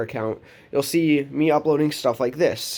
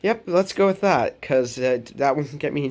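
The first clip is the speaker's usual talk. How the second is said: high, playful mock agreement; tongue-in-cheek yes, raised pitch; sarcastic agreement; 6 semitones higher than usual. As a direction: play along sarcastically with the teacher. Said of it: "I was like".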